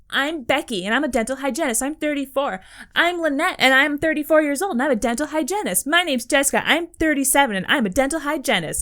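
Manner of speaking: mock a string of eager contestants introducing themselves; parody dating-show contestants. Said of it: "I've seen it in parodies".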